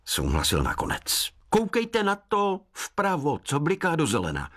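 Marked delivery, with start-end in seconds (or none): 1.5-4.5 high woodland voice, slowing with pride; proud forest spirit. Acted. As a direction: boast like a smitten sprite. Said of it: "dodal pyšně".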